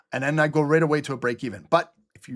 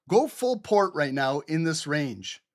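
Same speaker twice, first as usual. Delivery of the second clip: sarcastic advice. Pretend. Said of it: "give them some stupid advice".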